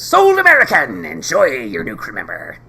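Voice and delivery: high, loud auctioneer shout; mock auctioneer cry. Captain closing the sale on the new crewman, auctioneer shout. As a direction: bellow "Sold American!" like an auctioneer. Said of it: "and says".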